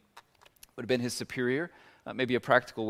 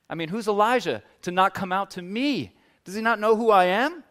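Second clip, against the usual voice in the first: offended pride; 7 semitones higher, 5 dB louder than usual. Retold or imitated. Naaman offended at Elijah.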